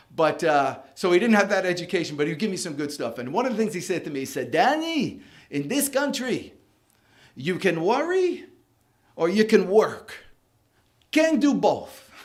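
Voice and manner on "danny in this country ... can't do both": slow, put-on French accent. Quoting the good stuff a man once told you, in his French Jewish accent. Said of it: "like in his little French Jewish accent".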